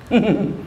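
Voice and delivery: imitated parent's ominous chuckle; short knowing mock laugh; dangerous smile chuckle. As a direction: chuckle with veiled threat. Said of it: "orang tua su senyum begitu".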